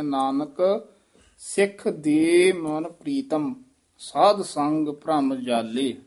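ਨਾਨਕ with a rise, a halt, then the rest; pause after ਨਾਨਕ. Shown as a demonstration. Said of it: "ਨਾਨਕ ਪਾਤੇ ਯਮਕ ਲਾ ਦੇਣੀ ਹੈ". (ਨਾਨਕ ਤੋਂ ਬਾਅਦ ਠਮਕ)

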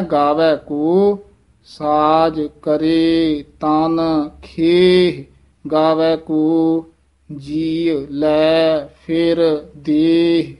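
slow, measured model reading of "ਗਾਵੈ ਕੋ"; correct recitation. Shown as a demonstration. Teacher showing the correct Gurbani reading, slow and measured "ਗਾਵੈ ਕੋ". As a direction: draw out each word from "ਗਾਵੈ ਕੋ" to "ਦੇਹ". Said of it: "ਇਹ ਸ਼ੁੱਧ ਬੋਲਣਾ ਹੈ".

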